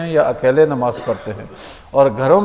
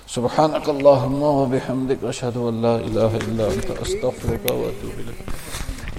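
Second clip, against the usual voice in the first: slow Arabic supplication, trailing softer; closing prayer; 4 dB quieter than usual. Real, not acted. Speaker closes the talk to the congregation with Arabic supplication, prayerful. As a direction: recite the closing dua slowly, letting it fade.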